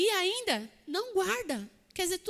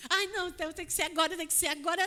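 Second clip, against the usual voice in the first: pressa ansiosa, fala rápida; ansiedade fingida; much faster than usual. Retold or imitated. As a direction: imite o coração acelerado. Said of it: "o coração fica como". (pressa ansiosa imitada)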